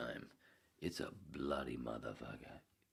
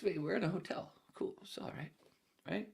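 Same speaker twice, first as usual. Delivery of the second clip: put-on groggy drunk self. Retelling his groggy drunk self.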